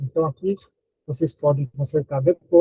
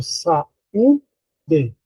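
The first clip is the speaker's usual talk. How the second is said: "saúde" slowly split as "sa... ú... de"; "saúde" in slow separate syllables, stressing "ú". Shown as a demonstration. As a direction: sound out "saúde" with gaps between syllables. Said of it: "a sílaba tônica é U".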